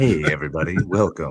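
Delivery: very low, smooth jazz radio DJ voice. Telling the other speaker he has the jazz voice, then imitating him: smooth jazz radio voice. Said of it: "you just like got the jazz voice".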